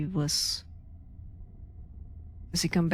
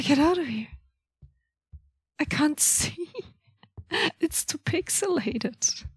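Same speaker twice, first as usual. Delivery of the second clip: whispering; 9 semitones higher than usual. Real, not acted. Whispered complaint.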